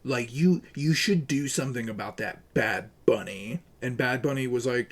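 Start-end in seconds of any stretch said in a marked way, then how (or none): 0.0-3.6 mock the tattling chatter lightly; mocking a snitch. Streamer mimicking a user reporting him to a rapper. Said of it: "tags her and says".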